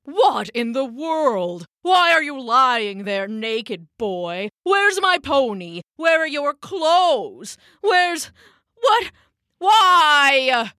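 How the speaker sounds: high, loud bewildered hollering. Acted. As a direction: shout it out in shock. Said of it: "started hollering straight away".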